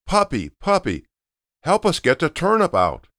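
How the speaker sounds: high, sing-song call; calling the puppy. Acted. Family calling the puppy to help, high call. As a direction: call the dog over from afar. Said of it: "so they started to shout".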